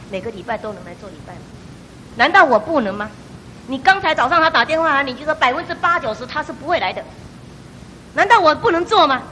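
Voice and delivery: a hint of a stern divine voice, rising to firm challenge; God rebuking. God rebukes the doubting woman at the crossing, stern reproach. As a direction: reproach her like a patient but stern God. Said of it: "忽然间神就责备我".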